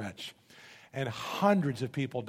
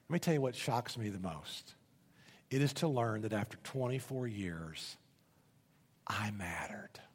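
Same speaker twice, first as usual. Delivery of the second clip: low, soft, sinking to a whisper; hushed confession; 5 semitones lower, 8 dB quieter than usual. Retold or imitated. Nurse confessing to his former patient, hushed and halting. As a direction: confide it gently, pausing, voice fading away. Retold tearful confession after long pause.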